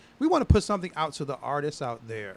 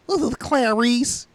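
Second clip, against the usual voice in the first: high, slow put-on persona voice; name announcement voice; 10 semitones higher, 8 dB louder, much slower than usual. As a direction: announce a new persona, slowly. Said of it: "Be like".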